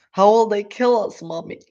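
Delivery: high, loud little fox voice; a scared cub asking its mother; small child fox afraid; frightened small fox. Acted. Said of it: "asked one of the small foxes".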